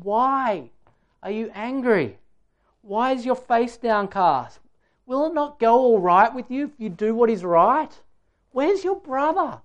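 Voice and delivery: heartfelt questions, spaced out by pauses; emotional questioning. Acted. God questioning Cain without accusation, full of pathos. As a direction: let each question ache, rising highest on the last. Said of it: "Hear the emotion in the questions".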